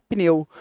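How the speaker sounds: "Pneu" in a single impulse of voice; "Pneu" with p running straight into n; one-impulse pneu. Shown as a demonstration. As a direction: say "Pneu" as one syllable, no vowel between p and n. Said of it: "Um só impulso de voz".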